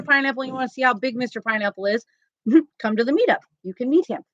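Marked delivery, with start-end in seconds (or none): none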